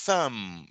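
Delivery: "Thumb" with the tongue between the teeth; th sound. Shown as a demonstration. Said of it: "símbolo do som do T H em inglês".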